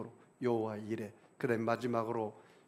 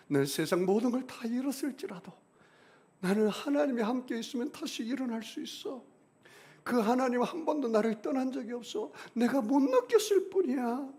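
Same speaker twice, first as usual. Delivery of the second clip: fervent confession; 9 semitones higher, 3 dB louder than usual. Acted. Voicing a believer's confession.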